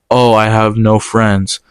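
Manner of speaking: slow, drawn-out mocking tone; mocking whine. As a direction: mimic her lame excuse sarcastically. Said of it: "she just tried to lie out of it".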